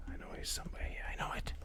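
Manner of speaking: tense whisper. Real, not acted. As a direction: keep it low, no voice. Hunting a hidden enemy.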